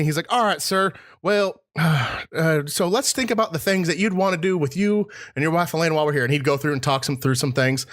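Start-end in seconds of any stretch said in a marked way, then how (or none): 0.3-6.2 higher-pitched Southern telemarketer; Southern salesman. Retold or imitated. Timeshare salesman planning things for couple, Southern accent. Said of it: "He had one, I didn't".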